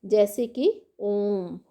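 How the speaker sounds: ओम said slowly with the vowel stretched; a lightly stretched ओम, showing the long calling vowel; teacher stretching ओम to show the prolonged vowel; drawn-out vowel demo. Shown as a demonstration. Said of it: "बुलाने या पुकारने के लिए".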